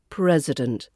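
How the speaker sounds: "president" said PREZ-uh-dent; schwa in president. Shown as a demonstration. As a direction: reduce the I of "president" to a relaxed uh. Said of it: "it's that I after the S".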